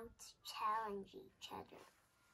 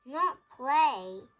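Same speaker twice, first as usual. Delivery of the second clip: very loud, higher demanding voice; insistent conductor; 6 semitones higher, 18 dB louder, slower than usual. Acted. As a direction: insist she plays, almost shouting. Conductor insists elephant plays.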